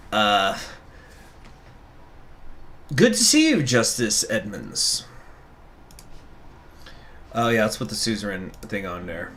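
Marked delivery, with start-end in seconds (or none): 2.9-5.0 character voice, retry. Shown as a demonstration. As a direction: try the voice again properly. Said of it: "I'm fucking it up".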